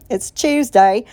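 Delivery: lightly put-on British "Tuesday", said like "Chewsday"; playful hint of British accent, rising at the end. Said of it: "that British accent video".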